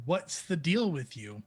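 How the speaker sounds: drawn-out, laughing mock demand; slow, over-articulated questioning; slow exaggerated miming. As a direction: stretch each word like miming. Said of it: "I'm trying to just communicate".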